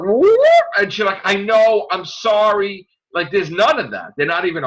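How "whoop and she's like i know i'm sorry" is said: mock tardis and Doctor.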